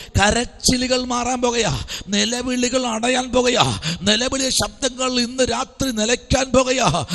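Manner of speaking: insistent, driving prophetic declaration; fervent preaching. Acted. Preacher promising the congregation that wailing ends tonight, fervent and insistent. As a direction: declare it to the crowd in a sustained preaching cadence.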